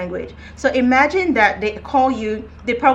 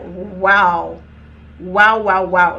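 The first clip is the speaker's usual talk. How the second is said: louder, amazed wows; 3 semitones lower, 5 dB louder, much slower than usual. Retold or imitated. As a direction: gasp at how good they sound. Amazed at Italians' American accents.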